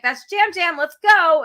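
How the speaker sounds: high, loud rallying cry; retold cheering. Host recalls rallying the room for Jam Jam, excited cheer. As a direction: whoop it up for your player. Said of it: "we were all cheering".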